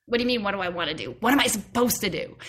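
fast, exasperated; bickering voices. Retold or imitated. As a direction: argue back at yourself. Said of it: "had this argument with myself".

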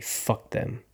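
angry whisper; whispered curse. Real, not acted. Angry at the casting team, whispered. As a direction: spit it out in a whisper.

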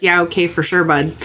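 put-on light Canadian accent, dry and curt; a hint of a Canadian, fed up but polite; Canadian passive-aggressive. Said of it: "Or in Canada, it's".

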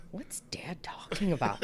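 put-on hushed, voiceless child question; whispering. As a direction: ask it in a whisper. Son quoted whispering.

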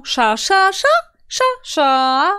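"Sza" repeated on jumping tones, one leaping very high; tone demonstration. Shown as a demonstration. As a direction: punch each "sza" on a different pitch. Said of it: "takie rzeczy i oni to łączą".

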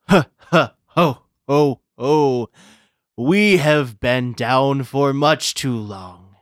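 booming jolly ho ho ho; slow jolly Santa proclamation. Acted. Mayor becomes Santa, declares.

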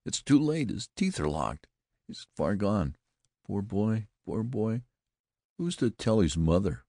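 high tragic lament; solemn, hollow voice. A narrator's reading. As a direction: grieve theatrically over a dying boy. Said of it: "hollow voice had penetrated".

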